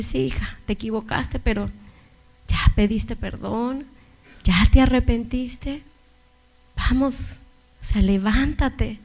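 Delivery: a hint of a gentle father, slowed; fatherly tenderness. The Lord speaking to the weeping woman like a loving father. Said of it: "como cuando un padre dice".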